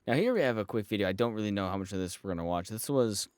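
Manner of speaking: talking with a numb mouth; words slurred by numb lips. Real, not acted. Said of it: "man, my mouth is numb".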